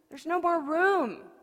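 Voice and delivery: loud, slow, high protest; angry shout. Acted. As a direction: cry it out in pain. Tea scalds her hand.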